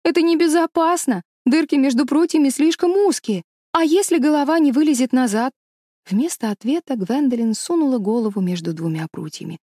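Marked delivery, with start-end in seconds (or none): 0.0-5.5 встревоженно. A narrator's reading. Испуганная девочка уговаривает подругу.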